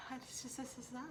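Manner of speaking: mock Spanish accent. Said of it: "your tongue is more loose when you speak Spanish".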